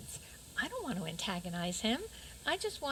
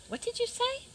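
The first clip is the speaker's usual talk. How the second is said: just waking up; 13 semitones higher, 3 dB louder than usual. Acted. Sleeping Beauty just woken up.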